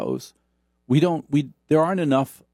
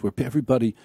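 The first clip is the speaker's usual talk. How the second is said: NPR voice. Retold or imitated. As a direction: parody a hushed public radio host. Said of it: "talks like this".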